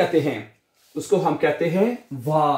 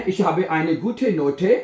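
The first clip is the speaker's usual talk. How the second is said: slow dictation; much slower than usual. Shown as a demonstration. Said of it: "हैं?".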